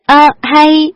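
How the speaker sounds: high, startled exclamation; astonished cry. A narrator's reading. Girl suddenly recognising the orchard owner, astonished. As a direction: blurt it out in surprise. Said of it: "cô ngỡ ngàng kêu lên".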